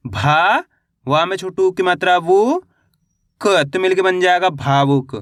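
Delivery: भा and वु held long and rising, then भावुक whole; syllable-by-syllable spelling. Shown as a demonstration. Teacher showing beginners how to read भावुक, syllable by syllable. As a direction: sound out भावुक piece by piece. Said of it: "एक एक अक्षर का उच्चारण करके".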